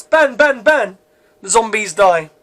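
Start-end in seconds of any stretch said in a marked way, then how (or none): 0.0-1.0 voiced gunshot bangs; imitated gunshots. A narrator's reading. Gunshots as zombies sneak up on humans, imitated bangs. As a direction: punch out each bang like a shot. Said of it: "Loud gunshots".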